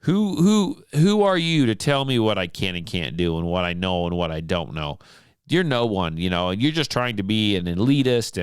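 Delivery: a touch of hackles-up defiance; a listener huffing back at the radio host; mock indignant rant. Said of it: "raise my hackles".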